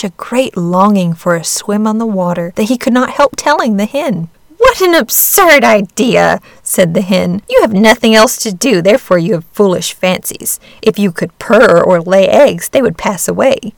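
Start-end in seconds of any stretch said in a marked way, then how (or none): 4.6-6.4 slow, loud, scornful hen voice; scoffing hen. Acted. 7.5-13.7 scornful hen. Acted. Hen lectures duckling.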